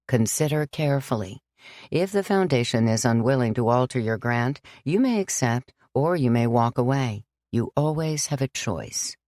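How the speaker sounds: put-on gently firm old priest; lightly voiced priest. Father John refusing Sam, calm and firm.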